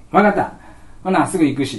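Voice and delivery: cheerful reply. Retold or imitated. Principal answers kids.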